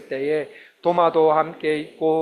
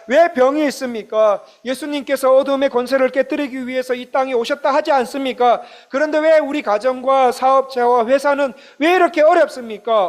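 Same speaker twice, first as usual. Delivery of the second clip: high, loud lament to Jesus; a believer crying out to Jesus, loud and high; pleading complaint; 5 semitones higher, 3 dB louder than usual. Pretend. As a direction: plead with rising frustration. Voicing congregation's complaining prayer.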